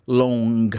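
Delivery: "long" with the final G pronounced after the N; sounded NG. Shown as a demonstration. Teacher demonstrating Scottish NG, "long" ending in a sounded G. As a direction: close "long" on an audible hard G. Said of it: "o N G, eles pronunciam".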